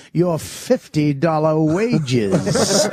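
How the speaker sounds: put-on slow, old-timey movie insult; nineteen forties delivery. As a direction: drag it out like a 1940s film heckler. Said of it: "delivered it like the nineteen forties".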